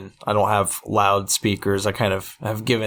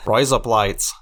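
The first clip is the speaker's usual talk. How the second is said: Australian accent; slower than usual. Shown as a demonstration. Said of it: "That's another one I learned".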